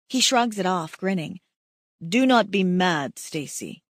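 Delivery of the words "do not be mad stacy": lightly voiced Pashov.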